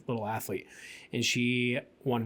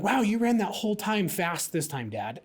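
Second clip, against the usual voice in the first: put-on excited kid; 6 semitones higher than usual. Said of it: "she was like".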